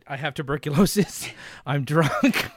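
lightly voiced drunk gunslinger; half-formed impression, breaking into a laugh; Val Kilmer. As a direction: warm up a tipsy movie impression. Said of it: "get my Val Kilmer going".

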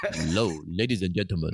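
imitating the announcer in a low key. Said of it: "different key. The first one goes".

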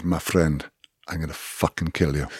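put-on understated menace in an amateurish South African accent. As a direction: imitate a South African, badly, without raising your voice. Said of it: "not really good at doing a South African accent".

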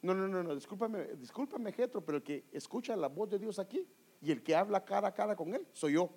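a hint of the haughty leader waving off advice; mildly mock-arrogant "discúlpame, discúlpame"; proud brush-off. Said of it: "hubiera sido orgulloso y le dice".

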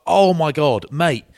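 high, loud, appalled outburst; appalled exclamation. Retold or imitated. Man reacting to spit in his mouth, appalled. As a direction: exclaim it in disgust.

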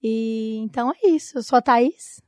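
hoarse, voice almost gone; losing her voice. Real, not acted. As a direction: speak through a worn-out voice. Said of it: "E eu tô sem voz, gente". (quase sem voz, rouca)

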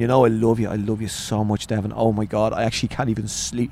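tender bedtime affection, re-enacted; imitated doting dad. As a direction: gush quietly to your little child. Gushing to young son at bedtime.

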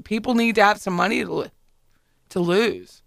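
choking on her words; struggling to swallow mid-sentence. Real, not acted. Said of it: "I was choking on my own words".

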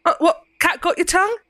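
light soft Cockney taunt; goading in a light Cockney. Acted. Ceridwen goading the silent prisoner, soft Cockney. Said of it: "A soft Cockney accent".

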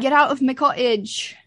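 vaguely Scottish ogre order; a hint of Scottish, like Shrek; Shrek accent. Imitating Gort chasing intruders out, vaguely Scottish accent. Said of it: "I was doing a Shrek accent a little bit".

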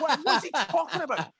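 high, incredulous outraged cry; screaming at phone. Retold or imitated. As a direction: yell it at the phone in disbelief. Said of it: "I was screaming at my phone".

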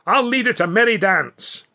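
high, loud, running; gleeful yell. A narrator's reading. Billy fleeing the ostrich, gleeful yell. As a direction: whoop while fleeing.

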